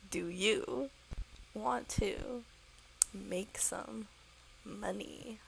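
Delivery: deliberate, spaced-out repeat for a slow listener; word by word. Acted. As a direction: DO YOU, WANT TO, MAKE SOME, MONEY in separate chunks.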